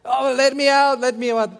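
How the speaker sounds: loud, high panicked cry to be let out; retold shout. Preacher reliving being stuck on a ride, shouting. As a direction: yell it like you're trapped on a ride. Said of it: "I was shouting".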